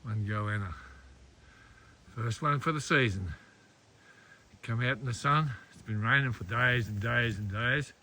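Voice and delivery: hushed voice. Real, not acted. Still beside the goanna.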